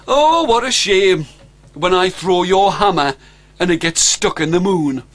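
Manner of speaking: a sly hero teasing a dragon; boastful Stan. Acted. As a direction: pity the dragon's hammer, showing off.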